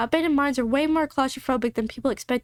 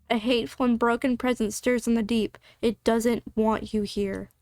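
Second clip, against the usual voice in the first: ominous narration; 3 semitones lower than usual. A narrator's reading.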